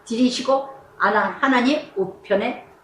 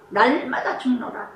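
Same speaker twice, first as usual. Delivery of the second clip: 날마다 죽노라 repeated softer, falling; 5 dB quieter than usual. Shown as a demonstration. Preacher echoing Paul's words softly to the congregation. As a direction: quietly echo 날마다 죽노라. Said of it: "사도 바울이 뭐라 했으니까?".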